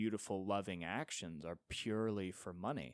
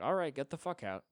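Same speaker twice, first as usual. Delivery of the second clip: high, brisk, businesslike send-off; brisk old-school hooker; 6 semitones higher, 3 dB louder than usual. Retold or imitated. Eighties sex worker dismissing her client John, high and brisk. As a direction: show the client the door cheerfully. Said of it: "they had the wherewithal to be like".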